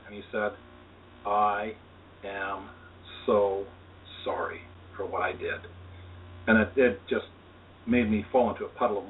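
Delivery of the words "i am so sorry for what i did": kind loving voice. Retold or imitated. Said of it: "in a very kind and loving voice".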